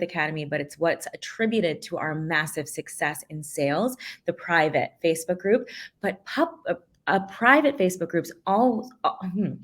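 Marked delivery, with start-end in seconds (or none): 6.0-9.5 winded, gasping between words; out of breath. Real, not acted. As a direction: talk while catching your breath. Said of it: "Okay, let me catch my breath".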